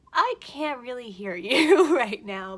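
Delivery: loud, laughing, slowed protest; laughing loudly. Retold or imitated. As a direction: burst out laughing mid-line. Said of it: "And I was like".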